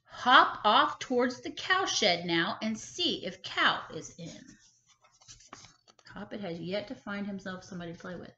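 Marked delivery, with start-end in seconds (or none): 0.0-4.4 put-on lively read-aloud to children; storybook narration. A narrator's reading. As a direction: read it like a bedtime picture book. Narrator reading picture book aloud.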